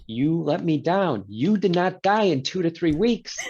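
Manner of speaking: mock disappointment. Mock scolding patient for surviving.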